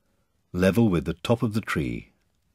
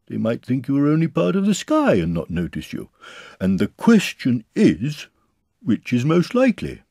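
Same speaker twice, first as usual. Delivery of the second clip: higher-pitched storybook bear; Pooh explaining earnestly; 5 semitones higher, 4 dB louder than usual. A narrator's reading. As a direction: explain the scheme in a high bear voice.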